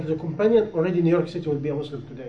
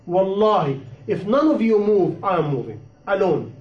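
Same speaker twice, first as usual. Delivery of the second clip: retold vow, firm and deliberate; mildly emphatic declaration of resolve; powerful conviction. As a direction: quote a resolute oath, weighting each phrase. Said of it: "With the power of the conviction".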